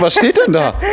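high, laughing question. Acted. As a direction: ask through laughter. Sketch, reading the scribble.

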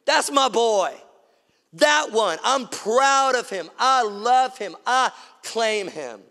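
loud, high, drawn-out proclamation; thundering proud Father. Acted. God the Father claims his boy from heaven, loud, thundering and proud. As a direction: boom it out proudly, stretching the key words. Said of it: "his voice thunders from heaven and he goes".

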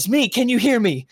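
high, loud urgent call; Vajra Blackstaff. Acted. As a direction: call out to rouse an unconscious friend. Vajra rouses unconscious Smee.

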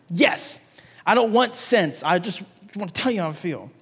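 lightly voiced sulky toddler. Preacher imagines Jonah answering God, like a toddler. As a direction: imitate a stubborn toddler's protest. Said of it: "It sounds like a toddler here".

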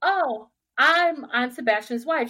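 borrowing Tom's voice for a new line. Retold or imitated. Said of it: "I was using the same voice".

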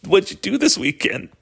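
high, fake-innocent question; holding back laughter. Pranksters quizzing the girl, fake-innocent and fighting a laugh. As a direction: ask it straight while trying not to laugh. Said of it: "biting our lips going".

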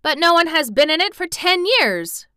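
high, loud astonished protest; amazed boy's objection; crying out. A narrator's reading. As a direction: cry out in disbelief. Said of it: "cried Colin".

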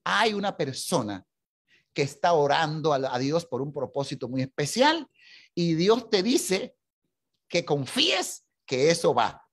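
slow, drawn-out prayer-meeting prophecy; slow prophetic word. Retold or imitated. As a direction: deliver it like a word from God in a prayer group. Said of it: "en medio de la oración dijo".

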